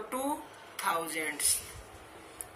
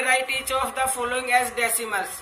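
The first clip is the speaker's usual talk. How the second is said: slow question reading; much slower than usual. Shown as a demonstration. Reads the textbook question aloud.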